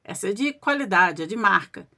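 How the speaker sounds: mildly acted gleeful relish, drawing out the praise; gleeful celebrating. Husband showing off the found drink, mock-gleeful. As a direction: imitate someone pleased with his find. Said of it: "todo faceiro começou a comemorar".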